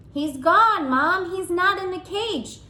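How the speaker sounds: put-on high, loud alarmed child; high loud panicked kid shouting for his mom; shouting boy. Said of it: "Simon shouted".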